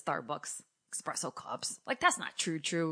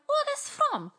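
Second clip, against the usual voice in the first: very high, delighted squeal; hammed-up maternal joy; imitating mom; 3 dB louder than usual. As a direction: gush like a thrilled mom. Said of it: "That's what she calls me".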